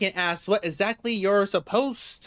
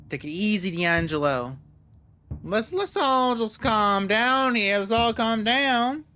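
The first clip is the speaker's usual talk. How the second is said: calming good cop; 4 semitones higher than usual. Acted.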